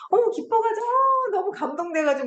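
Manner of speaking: hammed-up sentimental sob-talk; mock overjoyed crying. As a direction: ham up a teary gush of joy. Mocking a tearful joy cliché.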